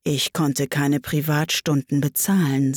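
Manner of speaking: understated, regretful sigh; a touch of weary regret. Acted. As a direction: say it with mild resignation. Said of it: "mit einem Seufzer".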